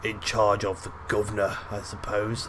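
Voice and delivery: lightly put-on British accent. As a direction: voice him with a hint of British. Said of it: "I don't know why he's British".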